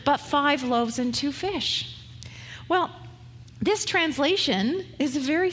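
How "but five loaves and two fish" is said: higher, mildly whiny protest; a little whiny. Retold or imitated. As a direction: whine it a touch, like a complaining student. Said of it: "it's a little whiny maybe".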